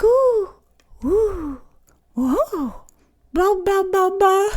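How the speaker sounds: put-on high, swooping baby coos and babble; imitated infant cooing, high and experimental; baby vocal play. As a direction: play with your voice like a three-month-old discovering it. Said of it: "have you ever been around a baby".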